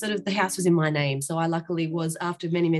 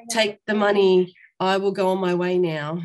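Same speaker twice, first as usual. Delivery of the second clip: retold brush-off; 5 dB louder than usual. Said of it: "because I'm like".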